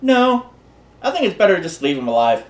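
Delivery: lightly voiced daughter, opening high; a hint of a daughter character; Evelina. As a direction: imitate the devil's daughter, starting on a high no. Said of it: "his daughter looks at, looks at Doug and goes".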